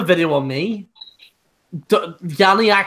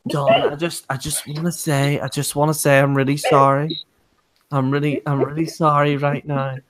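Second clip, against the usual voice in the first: pathetic apology; 5 semitones lower than usual. Retold or imitated. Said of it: "begging Don Juan Banks for forgiveness".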